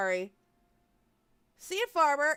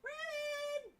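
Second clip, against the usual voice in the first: calling the cat; 12 dB quieter than usual. Real, not acted. Calling her cat again.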